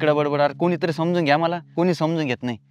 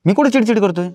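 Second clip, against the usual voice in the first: higher-pitched, testy retort; irritated denial; 5 semitones higher, 4 dB louder than usual. Acted. Husband denying to wife that he is irritable, testily. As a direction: protest sharply that you are not cross.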